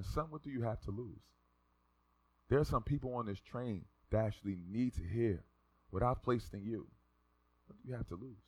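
soft, low fatherly voice; hushed and tender, unhurried; gentle divine question. Retold or imitated. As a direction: quietly reassure a hesitant son. God gently questioning him.

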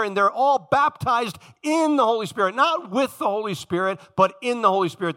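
"in" pushed hard, "not with" set against it; stress on in. Shown as a demonstration. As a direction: lean on "in the Holy Spirit", not "with". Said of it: "The Greek word is eis".

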